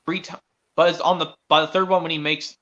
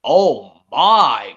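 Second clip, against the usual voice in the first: lightly voiced engines; 4 semitones lower, 8 dB louder than usual. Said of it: "it goes".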